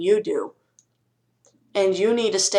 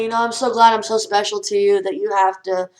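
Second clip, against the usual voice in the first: sarcastic thanks; 4 dB louder than usual. Pretend. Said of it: "You just say".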